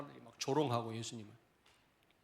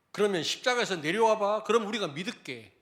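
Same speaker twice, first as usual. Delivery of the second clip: higher and louder, sneering dare; mocking taunt; 6 semitones higher, 7 dB louder than usual. Pastor voicing priests taunting Jesus, sneering dare. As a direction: jeer at him to come down. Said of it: "조롱하는 거죠".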